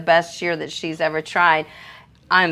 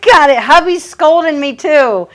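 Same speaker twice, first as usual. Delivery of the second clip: excited; 7 semitones higher, 7 dB louder than usual. Real, not acted. Laughing at a super chat mix-up.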